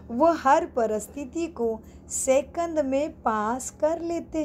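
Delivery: slow, deliberate read-aloud with spaced phrases; scripture reading. Acted. Teacher reading to students about passing on time, slow and deliberate. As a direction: read it out slowly, word by word.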